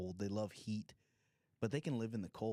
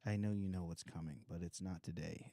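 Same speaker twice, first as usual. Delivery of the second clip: tender; 4 semitones lower than usual. Retold or imitated. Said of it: "I was just talking to him like that".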